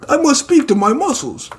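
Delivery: very high, mock-weepy voice; hammed-up tearful. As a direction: wail it in a squeaky, overcome falsetto. Same acted muscle man.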